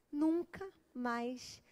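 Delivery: slow breathy whisper; hushed and slow. Real, not acted. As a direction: whisper it slowly. Hushed emphasis.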